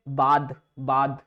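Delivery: बाद drawn out slowly with a voiced "dh" ending, like "bathe"; demo of dh sound. Shown as a demonstration. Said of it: "दी, इसकी sound क्या आएगी". ("बाद" धीमे, अंत में गूंजती "द" ध्वनि)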